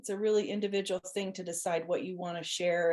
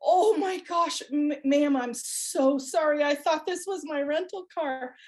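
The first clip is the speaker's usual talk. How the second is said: flustered apology; 4 semitones higher than usual. Retold or imitated. Apologizing in shock to stranger.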